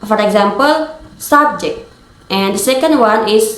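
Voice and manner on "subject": SUBJECT with the first syllable stressed. Shown as a demonstration. Teacher giving an example of primary stress, first syllable stressed in "subject". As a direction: hit the SUB of "subject". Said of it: "we put stress on the first syllable".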